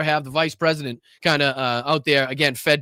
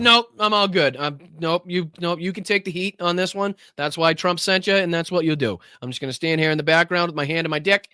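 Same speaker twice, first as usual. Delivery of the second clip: mock dodging official; 5 semitones higher than usual. Host mimics official dodging questions.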